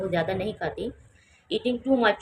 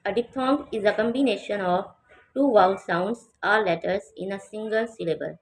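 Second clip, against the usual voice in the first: very slow, clear reading of the definition; slow model reading; much slower than usual. Shown as a demonstration. Teacher reading the textbook definition slowly to students. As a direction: read it out slowly for the class. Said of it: "teacher reads definition aloud".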